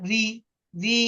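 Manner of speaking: "রি" said as one syllable, ri; pronunciation demo. Shown as a demonstration. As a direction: model "রি" clearly as ri for a learner. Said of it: "উচ্চারণটা হবে রি এর মতো".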